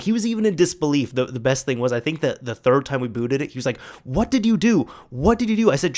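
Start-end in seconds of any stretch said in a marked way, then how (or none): 4.0-5.7 amazed. Retold or imitated. Sean amazed the PC boots.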